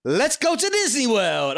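imitating. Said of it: "I just can't imagine you going".

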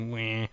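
soft mock newborn whimper; a half-hearted little baby meh; imitating a baby's lazy cry. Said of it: "really lazy cry".

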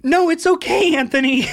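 loud call across the water; shouting over rapids. Acted. Friend shouting across the raft, loud. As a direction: yell it over the rushing river.

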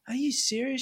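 lightly voiced wife in disbelief; mock wife's disbelief. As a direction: ask it like you can't believe him. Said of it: "She goes".

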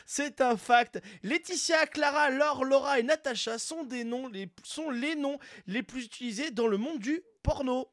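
hyped fact announcer. Acted. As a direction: announce it like a big scoop. Announces a fun fact like a presenter.

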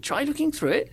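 lightly voiced, puzzled Cleese, rising high; puzzled repeat. John Cleese echoes the made-up line, mildly baffled. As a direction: echo the words back, baffled. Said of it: "and then he went".

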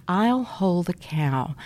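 slow, hushed "I'll hold the cow" with no voice; gentle teacher whisper. Shown as a demonstration. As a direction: whisper it slowly to calm the child. Teacher demonstrates calm intervention.

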